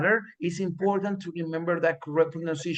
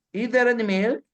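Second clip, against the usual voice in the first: milk lifted at the end as a question; rising question tune; 6 semitones higher, 4 dB louder than usual. Shown as a demonstration. Teacher modeling the question for the class, rising. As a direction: ask it, let the end go up. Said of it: "Díganlo".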